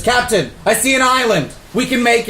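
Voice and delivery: first mate calling out. Acted.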